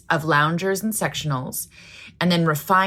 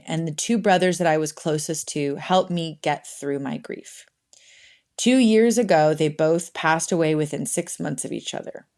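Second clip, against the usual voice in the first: reading a letter aloud. Acted. Podcast host reads a listener's letter to cohost, sincere. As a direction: read the listener's letter gently, with care.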